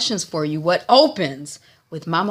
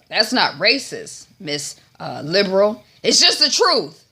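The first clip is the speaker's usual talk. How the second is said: acted protest jumping high and loud at the end; indignant retort; 3 semitones higher, 4 dB louder than usual. Old man answering an accusation, indignant retort. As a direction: defend yourself, building to an outburst.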